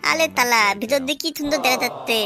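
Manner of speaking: put-on baby-talk wonder, r turned to l; childish lisp, full of delight; lisping childish rascal, delighted. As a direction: marvel like a small child at a new toy. Childish figure marvels at makeshift telescope.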